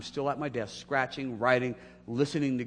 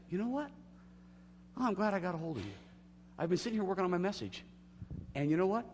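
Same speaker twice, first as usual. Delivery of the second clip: excited phone voice; 9 semitones higher, faster than usual. Retold or imitated.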